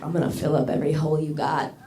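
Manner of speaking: lightly voiced oily porn actor, meek not scary; non-threatening porn guy. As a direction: say the threat with no menace at all. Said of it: "in a very non-threatening way".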